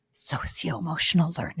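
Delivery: secretive, soft whisper, barely voiced. A guest describing a math book, whispering. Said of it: "I'm whispering that".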